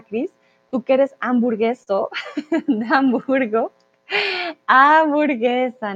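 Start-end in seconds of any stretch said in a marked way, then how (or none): 4.7-5.9 Hamburguesa said slowly, every syllable clear; slow stressed correction. Shown as a demonstration. Teacher correcting a student's word, slow and clear. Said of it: "no, no, no, no burger".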